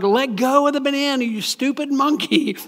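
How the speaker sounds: lightly voiced exasperated God; blunt God.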